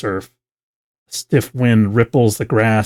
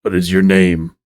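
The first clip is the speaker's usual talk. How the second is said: deep voice; 3 semitones lower, 4 dB louder than usual. Acted. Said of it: "You hear a deep voice that you don't recognize".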